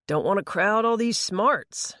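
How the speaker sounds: put-on slow, smug teen brag; smug boast. A narrator's reading. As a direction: brag about his smarts. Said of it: "he claimed".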